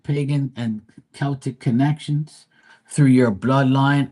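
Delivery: measured, deliberate read-aloud delivery; card reading aloud. Acted. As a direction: read it out like an oracle card, phrase by phrase. Reads a card message aloud.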